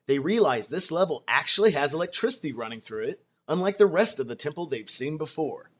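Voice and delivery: calm, even scene-setting narration; storytelling narration. Acted. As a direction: set the scene like a game master. Game master scene setting.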